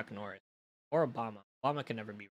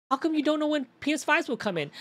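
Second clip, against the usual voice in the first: whiny customer voice; 12 semitones higher, 4 dB louder than usual. Retold or imitated. Mimicking a demanding customer.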